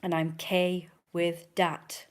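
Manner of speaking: slow, mock Italian-American mob boss drawl; Don Lino mafia accent. Don Lino slowly explaining himself in his accent. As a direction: lightly put on gangster boss voice. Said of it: "That's just how Don Lino talks".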